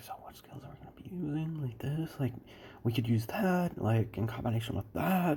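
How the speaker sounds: muttering under breath. Retelling a scene, voicing Izuku planning his skills: muttering under his breath. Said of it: "he's just muttering all this under his breath".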